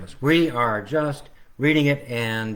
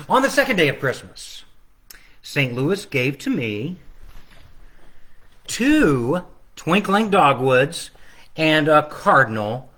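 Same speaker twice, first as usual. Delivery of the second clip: slow, sing-song storybook reading; reading to children. Acted. Author reading his Christmas book to children online. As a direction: read it out slowly for the kids.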